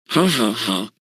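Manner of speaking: chuckling. Acted. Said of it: "chuckled Nugent".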